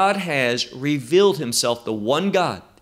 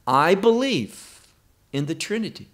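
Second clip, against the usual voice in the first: bold, emphatic declaration. Real, not acted. Preacher answering whether Yeshua is divine, emphatic and bold. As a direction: state it as a firm confession of faith. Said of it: "I say that emphatically, boldly".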